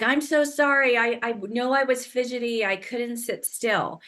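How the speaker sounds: imitating a client apologizing in a rush; apologetic client. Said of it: "And they're like".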